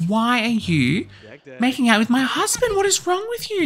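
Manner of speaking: high, rising angry scolding of a cheating husband; furious high demand; the wife confronts her husband, voice high and angry. Acted. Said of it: "they're gonna be angry".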